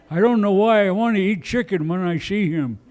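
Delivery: put-on caricatured Native American accent. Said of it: "that's my Native American voice".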